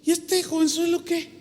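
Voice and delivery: mock disdain for the young preacher; scornful quote. Older men mocking the young preacher, scornfully. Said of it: "así como dice".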